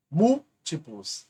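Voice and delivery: Múltiplos dito devagar, sílaba MúL bem marcada; stressed syllable shown. Shown as a demonstration. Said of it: "quando a antepenúltima for a mais forte". (pronúncia lenta de Múltiplos com a antepenúltima forte)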